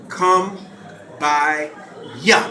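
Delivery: "Come by ya" with ya in place of here, slowly; Gullah Geechee pronunciation. Shown as a demonstration. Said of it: "It was".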